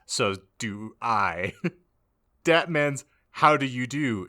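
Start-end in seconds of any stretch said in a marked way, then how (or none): 2.4-4.3 bright lifted reading of the quote; happy. Acted. Narrator voicing a happy friend, lightly raised and cheerful. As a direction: say it with a cheery lift. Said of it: "She said happily".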